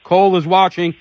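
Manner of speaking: fervent outcry. Real, not acted. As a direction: hammer each accusation home like a rally speech. Advocate denouncing officers, rising fervour.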